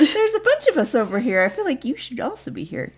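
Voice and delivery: re-enacted yell, easing off in volume; yelled summons. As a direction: holler pointedly at absent parents. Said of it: "And I just yelled".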